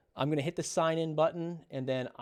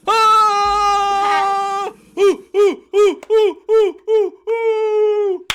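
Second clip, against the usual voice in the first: screaming high and very loud with relief, close to crying; joyful scream; 14 dB louder, much slower than usual. Real, not acted. Dad hears he passed his test, screaming with real joy. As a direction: let out a wild scream of relief.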